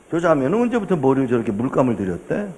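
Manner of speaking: quick hushed aside; slyly asking. Retold or imitated. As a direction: ask it quietly on the sly, fast. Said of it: "슬쩍 물어봤어요". (슬쩍 빠르게 속삭이듯 묻기)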